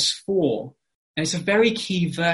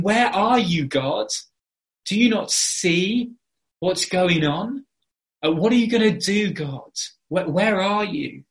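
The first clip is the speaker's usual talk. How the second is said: mildly acted plea, pitched up; crying out; 4 semitones higher than usual. Preacher voices Habakkuk asking where God is, crying out. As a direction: plead upward as if questioning God. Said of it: "he's crying out to God".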